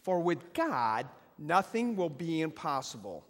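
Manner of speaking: say it like you mean it. Shown as a demonstration. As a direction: proclaim it with conviction. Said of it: "say it like you mean it".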